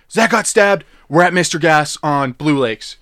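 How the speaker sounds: urgent news over a bad line, acted; retold freak-out. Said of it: "freaking out".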